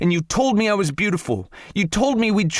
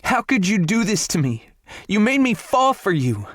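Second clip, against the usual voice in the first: screaming; 13 semitones higher than usual. A narrator's reading. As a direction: scream it up high through hurt. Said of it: "Morgan's voice was turning hoarse from screaming".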